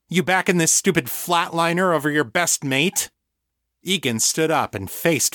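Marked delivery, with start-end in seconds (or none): 0.1-3.1 higher-pitched, indignant accusation; angry challenge. A narrator's reading. Victor to his best mate who sided against him, indignant. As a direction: demand it of a disloyal friend.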